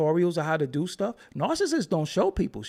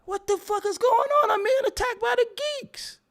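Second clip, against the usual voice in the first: mock panic. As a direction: yell it like you're under siege. Mock alarm at commenters.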